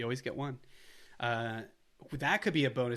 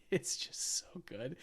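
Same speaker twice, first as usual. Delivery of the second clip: slow soft whisper with a laugh; 4 semitones higher, 5 dB quieter, slower than usual. Real, not acted. Host savouring the movie in a whisper. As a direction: breathe it out, delighted.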